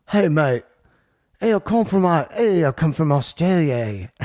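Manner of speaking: hammed-up bad Aussie accent; sad Australian accent. Shown as a demonstration. Host mocking his own failed Australian impression, bad accent. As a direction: do a deliberately poor Australian accent. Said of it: "the sad us-, uh, uh, accents".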